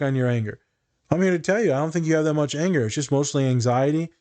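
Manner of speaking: fired-up reassurance. Retold or imitated. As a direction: lift them up with urgent conviction.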